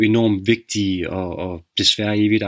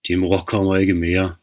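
erupting father; 2 semitones lower than usual. Acted. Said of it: "Farens stemme væltede ud af ham som en vulkan".

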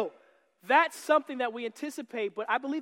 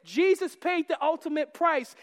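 casual; 3 semitones higher than usual. Shown as a demonstration. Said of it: "That shouldn't be so casual where I can say".

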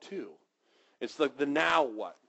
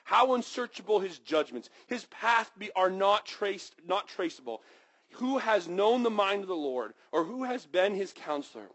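scripture reading. Acted. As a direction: read the doxology with reverence. Reads scripture aloud.

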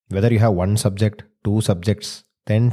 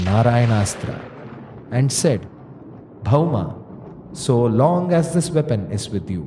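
measured storyteller voice; story narration. A narrator's reading. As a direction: tell the old legend gravely. Narrates the myth.

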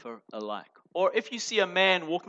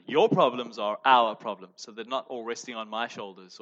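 gentler; 4 semitones lower than usual. Shown as a demonstration. Pastor softening the line for the congregation, gentle. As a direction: ease it gently, share the load. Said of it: "let me make it sound a little more gentler".

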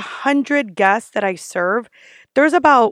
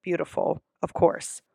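polite; 3 semitones lower than usual. Acted. Server politely confirming a guest's order, polite and softening. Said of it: "So I always politely say".

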